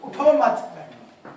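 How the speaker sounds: उठो मत drawn out slowly as one unit; restarted phrase. Shown as a demonstration. Teacher repeating from behind after a wrong stop, उठो मत slow and joined. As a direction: go back and stretch उठो मत together before बैठो. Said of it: "अब दोबारा बोले".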